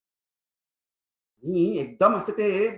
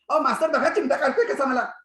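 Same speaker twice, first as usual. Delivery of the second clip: much higher complaining schoolboy; whiny tattling kid; 8 semitones higher, 3 dB louder than usual. Retold or imitated. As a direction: tattle to the teacher. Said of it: "तक्रार करून मास्तरला म्हणालं". (तक्रार करणाऱ्या खोडकर पोराचा उंच, रडका आवाज)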